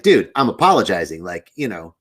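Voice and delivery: retold mild snippy retort, punched first word; a little snippy. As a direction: act out a touch of irritation, telling someone off. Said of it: "now I'm getting a little snippy 'cause I'm like".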